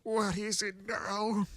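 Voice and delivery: high, slow, weary whine; exasperated Discord. Acted. Discord, worn out by forms, whines at the clerk. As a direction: sigh it out, fed up with the clerk. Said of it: "Discord sighed".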